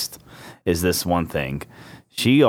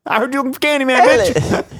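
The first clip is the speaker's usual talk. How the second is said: high hammed-up Black accent; mock Black accent. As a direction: ham up an Eddie Murphy style accent. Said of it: "the more we do black accents".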